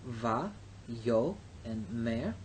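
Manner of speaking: va, yo, mer split into slow separate syllables. Shown as a demonstration. Teacher splitting a Hebrew word for students, slow and separate. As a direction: break vayomer into its three syllables. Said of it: "The accent is on the s-, middle syllable".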